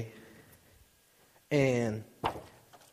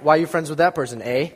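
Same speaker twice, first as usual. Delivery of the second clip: put-on quick, light Canadian accent with a tagged-on eh; mock Canadian mom; 4 dB louder, faster than usual. Preacher mimicking his Canadian mother, quick mock Canadian accent. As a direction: tease mom's Canadian accent. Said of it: "she's Canadian".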